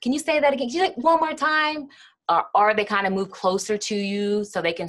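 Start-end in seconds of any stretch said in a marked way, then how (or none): 0.0-1.9 mildly voiced listener asking again. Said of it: "People say".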